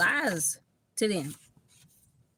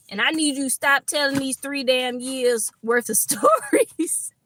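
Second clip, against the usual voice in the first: mock exasperation; 4 semitones higher than usual. Voicing a jealous partner after three years, mock exasperated. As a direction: scold in mock outrage, pitch climbing as it goes. Acted jealous quarrel voiced in reading.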